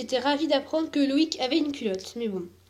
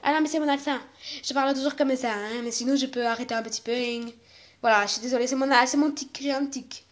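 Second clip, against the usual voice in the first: put-on Marseille accent, "-ing" tacked onto endings; Marseillais accent; 4 dB quieter than usual. Mia excuses her verbal tic, in a Marseille accent. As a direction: defend yourself in Marseillais, a little softer. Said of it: "tu rajoutes toujours des Ing à la fin".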